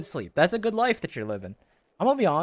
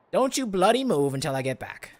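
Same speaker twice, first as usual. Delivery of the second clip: put-on British accent, raised and a little louder; 4 semitones higher, 4 dB louder than usual. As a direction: order them about in a British accent. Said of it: "my, uh, British U K accent".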